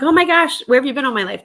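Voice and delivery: high, loud, thrilled gasp of delight; excited gush. Retold or imitated. Thrift shopper gushing about a new store, excited. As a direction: gush over the shop like she found treasure. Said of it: "But I was like".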